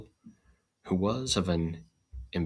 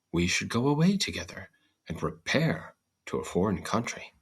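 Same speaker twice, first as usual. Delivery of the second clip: bean's voice; 3 semitones higher than usual. Acted. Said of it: "answered the bean".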